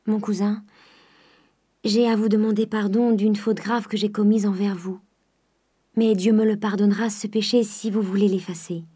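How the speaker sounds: a touch of emotion, gently pleading; moved voice. Acted. Eugénie confessing to her cousin, lightly moved. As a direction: ask forgiveness with a lightly trembling heart. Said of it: "dit d'une voix émue".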